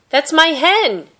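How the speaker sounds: high, loud and slow protest; cried out. Acted. My My protesting to the fisherman, crying out. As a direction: claim her hen with everything she has. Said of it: "she cried to the fisherman".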